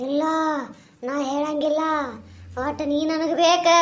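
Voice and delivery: a lightly voiced menacing ghost. Ghost answers woman.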